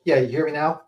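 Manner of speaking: hollow, boxy mic sound; like speaking inside a tin box. Real, not acted. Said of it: "You sound like you're in a box".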